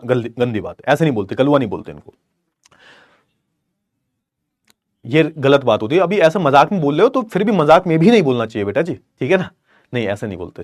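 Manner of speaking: a soft, patient no-no; gentle scolding. Real, not acted. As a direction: quietly tell them off, not angry. Teacher gently scolds students for name-calling.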